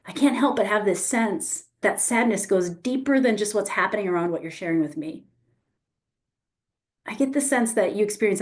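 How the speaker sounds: gently mirror a hidden loss, close to crying; tender, emotional mirroring. Shown as a demonstration. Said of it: "I went into the emotion".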